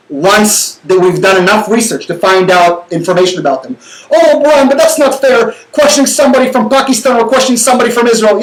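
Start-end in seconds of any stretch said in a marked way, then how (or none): 4.1-8.4 playing the whiny critic; mock objector. Voicing a critic who objects to vetting, a mock protest.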